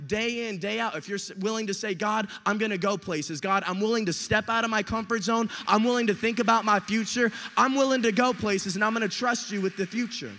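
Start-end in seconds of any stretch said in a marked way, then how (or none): 1.9-10.3 louder, driven preacher's vow; bold, insistent prayer out loud; impassioned declaration. Acted. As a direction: declare it to God with rising fervour. Acting out a bold prayer of commitment.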